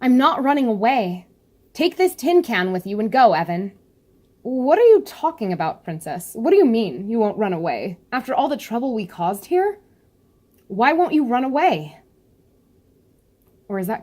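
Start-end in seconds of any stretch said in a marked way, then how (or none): 0.0-3.7 lightly voiced young princess, a bit higher; a hint of a proud princess telling her friend to go; best Yuri voice. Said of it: "I'll do my best Yuri voice". 4.4-12.0 lightly voiced worried young man, a bit higher; a touch of disbelief, pressing the princess; Evan voice. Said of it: "I'll just do voices".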